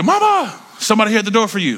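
put-on high, fast childlike call to mom; excited kid calling. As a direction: shout up the hall like a thrilled kid.

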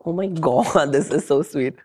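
usual speaking voice

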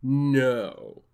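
a hint of echoing ethereal energy being; lightly voiced ethereal being; Spirit voice. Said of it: "the Spirit voice".

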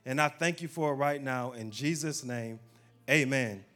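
closing prayer. Acted. Pastor praying over the congregation, fervent and loud. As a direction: pray over the church with rising force.

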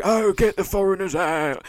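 high, slow mocking rant; hammed-up xenophobic moaner; mock TV ranter. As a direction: parody an outraged pundit, drawn out. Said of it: "They're all like".

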